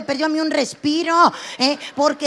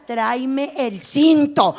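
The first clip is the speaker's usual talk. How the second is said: drawn out, slow threatening order; slow menacing order; much slower than usual. Retold or imitated. Comedian's mother ordering the belt, slow and menacing. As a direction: stretch it out like a promise of a beating. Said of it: "todavía me decía".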